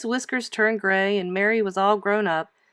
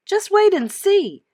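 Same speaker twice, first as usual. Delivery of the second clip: put-on high, slow, teasing girl voice; eager girl voice; 11 semitones higher, 6 dB louder than usual. Girl teases the grown-ups about her secret, high and slow. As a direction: draw it out like a proud little girl.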